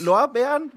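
Lorbeeren said high, punning on Lehrborn; pun on Lorbeeren. Real, not acted. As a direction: lift Lorbeeren as a joke. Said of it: "wie wahnsinnig ich wieder hier bin".

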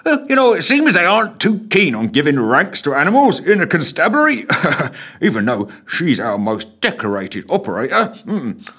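high jolly voice, breaking into laughter; laughing constable. A narrator's reading. Constable laughing about the dog's self-given rank. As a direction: laugh at your own story. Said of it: "it does make me laugh".

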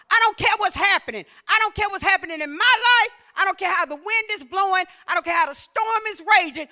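a preacher lightly voicing King David, fervent. Preacher voicing King David's resolve in preaching fervor. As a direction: give David's defiant rejoicing some fire. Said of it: "King David was saying".

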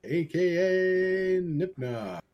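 hammed-up late night announcer; mock talk show host. Cohost introducing Dan as a late night show, mock announcer. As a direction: lay it on like a TV host.

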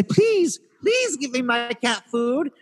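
high, drawn-out pleading; mock pleading. Customer begging store staff for cat food, mock pleading. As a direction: beg theatrically for a favor.

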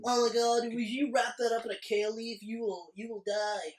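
lightly imitated health-food enthusiast; a hint of new-age gushing; mock new ager. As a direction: gush a little, mocking a new-age believer. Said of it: "when the new agers will hit".

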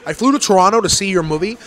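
loud, indignant rant from a fed-up festival-goer; angry moviegoer. Pretend. Festival-goer yelling at the actor about his movie, indignant and loud. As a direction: yell it like a ticket buyer who got ripped off.

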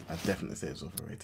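a fast, half-whispered repeat; muttered repeat. Real, not acted. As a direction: toss it off under your breath. Repeats the opinion under breath.

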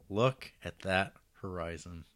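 mock wistful admiring. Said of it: "and you go".

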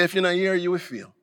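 put-on light Jamaican accent, quoting grandma; a hint of Jamaican patois. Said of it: "And in her Jamaican accent".

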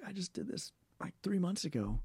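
high, mock-indignant protest; exasperated. Telling interviewer about the agency's demands, exasperated. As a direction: act out the disbelief at redoing paperwork.

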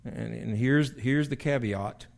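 slow, deliberate reading of the verse; measured pulpit reading of scripture. Acted. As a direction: read it out like holy writ. Preacher reads scripture slowly.

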